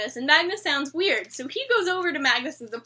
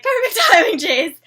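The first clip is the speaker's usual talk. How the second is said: mock congratulation; 2 semitones higher, 9 dB louder than usual. Her reaction to an ill-timed call.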